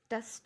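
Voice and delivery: टस said in one quick go; quick weak syllable. Shown as a demonstration. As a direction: drop टस briefly, with a weak vowel. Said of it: "हमने एकदम से बोल दिया". (टस को झट से, बिना ज़ोर)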